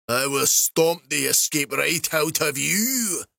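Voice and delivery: slow, menacing overseer; angry threat. Acted. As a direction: spit out the threat slowly. Slave master threatening fleeing slave.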